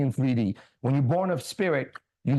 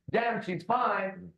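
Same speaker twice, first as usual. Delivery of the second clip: slow awed admirer; 5 semitones higher, 4 dB quieter, much slower than usual. Retold or imitated. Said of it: "Why is it".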